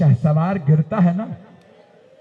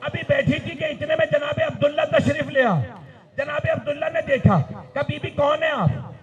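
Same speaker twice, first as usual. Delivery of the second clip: preaching at full force; 6 semitones higher than usual. Acted. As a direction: drive the grief home to the mourners.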